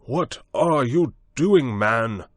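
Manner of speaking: high, loud alarmed cry; cried out. A narrator's reading. Montgomery cries out to Prendick in the water, loud and alarmed. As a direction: call out in alarm across the water. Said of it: "cried Montgomery".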